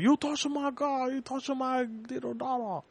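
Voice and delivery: put-on high-pitched caricature Asian accent; mock Asian accent. Host acts the Asian father accusing, mock Asian accent. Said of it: "The Asian father was like".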